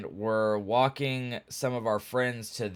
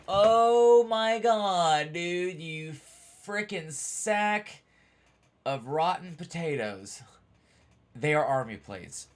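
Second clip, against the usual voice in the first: higher, slow, drawn-out disbelief; exasperated; 6 semitones higher, slower than usual. Retold or imitated. Telling the cop the plates are Army, exasperated. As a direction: stretch every word in fed-up disbelief.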